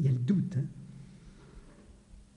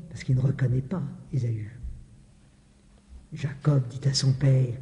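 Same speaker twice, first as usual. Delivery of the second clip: normal talking voice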